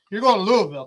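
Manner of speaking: "Louisville" imitated as LOO-uh-vul; Louisville said Ron's way. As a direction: copy the local "Louisville", loose uh in the middle. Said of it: "That's how Ron says it".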